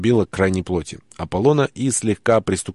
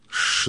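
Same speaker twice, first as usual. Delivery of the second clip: shushing hiss; 4 dB quieter than usual. Acted. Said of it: "зашипел я".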